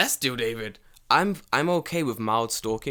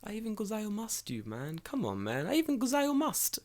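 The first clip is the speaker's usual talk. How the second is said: exasperated rant; 11 semitones higher, 5 dB quieter than usual. Retold or imitated. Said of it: "I'm like".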